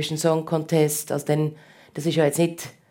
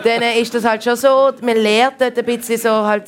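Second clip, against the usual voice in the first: said through a real laugh; 4 semitones higher, 5 dB louder than usual. Real, not acted. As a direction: laugh it out while telling. Laughs about street music heckler. (lachend, durch echtes Lachen gesprochen)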